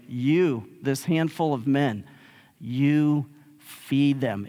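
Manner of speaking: "You" set apart by pauses, "you feed them" drawn out slowly; emphatic YOU. Retold or imitated. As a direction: lean on each "you" as a retold command. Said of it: "is very emphatic".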